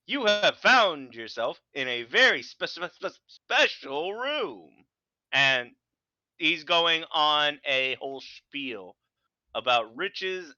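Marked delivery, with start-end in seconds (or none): 0.0-4.9 stuttering transatlantic voice. Acted. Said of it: "stuttering common".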